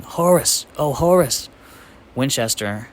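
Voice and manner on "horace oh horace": high, loud overjoyed cry of a name; joyful yell. A narrator's reading. Secretary running to his lost cat, joyful yell. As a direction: call out to a long-lost pet, thrilled. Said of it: "ran across the room yelling".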